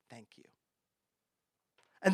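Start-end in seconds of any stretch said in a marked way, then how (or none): 0.1-0.4 very soft, low thank-you; quiet, understated gratitude; hushed thanks. Acted. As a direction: drop to a humble, barely audible prayer. Jesus quietly giving thanks over lunch.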